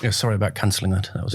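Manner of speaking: talking around a mint; sucking on a mint. Real, not acted. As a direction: mint in the mouth. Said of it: "you sucking on a mint there".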